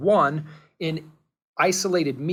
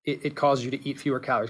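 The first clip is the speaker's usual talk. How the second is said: fast emphatic repeat; 3 semitones lower, 4 dB quieter, much faster than usual. Real, not acted. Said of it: "let's be very, very clear".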